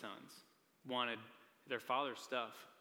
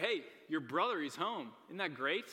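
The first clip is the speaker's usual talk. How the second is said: excited servant; 4 semitones higher, 4 dB louder than usual. Retold or imitated. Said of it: "he's probably really excited".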